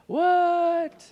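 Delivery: shocked, incredulous what; stunned what. Retold or imitated. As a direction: react as if it's too good to be true. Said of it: "You're like".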